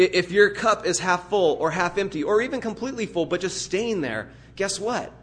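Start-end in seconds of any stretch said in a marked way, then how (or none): none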